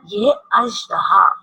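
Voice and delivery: slow, careful अजदहा; slow model word. Shown as a demonstration. Teacher models अजदहा slowly for children. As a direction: spell out अजदहा slowly for the kids. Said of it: "मेरे साथ repeat करें".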